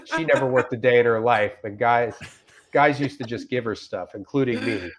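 straight-faced reading of an absurd review; dry earnest reviewer voice; deadpan review reading. Acted. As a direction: read it like a sincere customer, totally deadpan. Reads Yelp review aloud.

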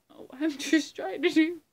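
high, loud, helpless giggly talk; laughing. Real, not acted. Performer failing at a Michael Caine impression, laughing helplessly. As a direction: crack up while trying to speak. Cracks up over failed impression attempt.

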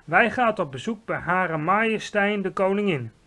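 high, loud proclamation; called out. A narrator's reading. Giant leaving the cave for the Queen, calling out. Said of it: "riep de G V R".

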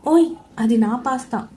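mock-spiteful protest over her stolen pasta. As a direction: snap back over her pasta, lightly. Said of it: "అన్నాను కచ్చిగా".

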